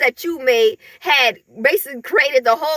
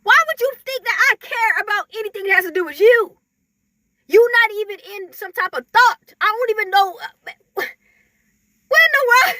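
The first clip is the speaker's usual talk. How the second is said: higher, exasperated brush-off, slowing on the last question; dismissive disbelief; 7 semitones higher than usual. Retold or imitated. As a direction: act baffled that anyone would care. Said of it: "It's like".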